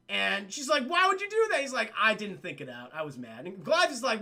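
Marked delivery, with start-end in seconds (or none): 0.9-1.6 high, loud exasperation; imitated appalled princess; mock indignant question. 2.0-3.5 low mock admission, dropping off; mumbled-down, imitated confession; sheepish excuse. Acting Malgus's sheepish excuse.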